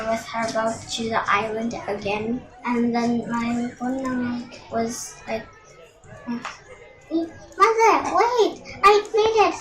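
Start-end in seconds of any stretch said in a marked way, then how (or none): 6.3-9.5 high, loud pleading cry; desperate plea. Acted. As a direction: beg her to stop before it's too late. Son begs his mother to stop.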